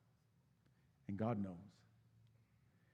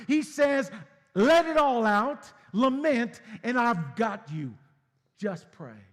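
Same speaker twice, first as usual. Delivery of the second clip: high, loud, impassioned preaching; preaching at full force; 10 semitones higher, 12 dB louder than usual. Real, not acted. Pastor urging grieving church to pray, loud impassioned preaching. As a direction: build and shout it out to the congregation. Preaching climax, pitch and level way up.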